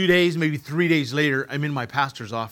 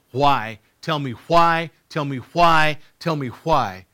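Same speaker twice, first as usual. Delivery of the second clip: raised, insistent demand, retold; retold angry yell; 6 dB louder, slower than usual. Grieving son to God in the pastor's office, retold yell. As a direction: relive pounding out a demand, short of a full yell. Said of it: "I yelled at him".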